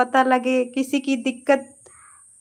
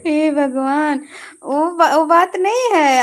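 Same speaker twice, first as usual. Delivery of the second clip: laughing while talking; 3 semitones higher, 3 dB louder than usual. Real, not acted. Still laughing, explaining.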